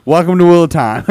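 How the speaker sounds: chuckling through the words; laughing. Real, not acted. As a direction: laugh while saying it. Laughing at long book.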